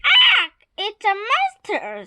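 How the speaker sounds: high, startled cry of alarm; acted fright, jumping up in pitch; terrified. A narrator's reading. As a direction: yelp it out at the sight of a monster. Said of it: "they screamed in terror".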